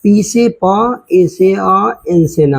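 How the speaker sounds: पी से प, ए से अ, एन से न, each letter then its sound. Shown as a demonstration. Teacher building English spelling for pupils, sounded out. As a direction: sound out पी, ए, एन one by one. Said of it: "आप English बनाओ".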